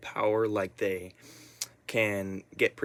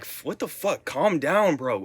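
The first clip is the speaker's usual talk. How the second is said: dismissive cousins; 5 semitones higher, slower than usual. Retold or imitated. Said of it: "they were like".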